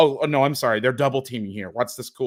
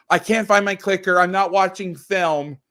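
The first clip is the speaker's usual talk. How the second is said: diva whine; 6 semitones higher, 5 dB louder than usual. Retold or imitated. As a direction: whine like a pampered film diva. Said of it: "I've become a diva".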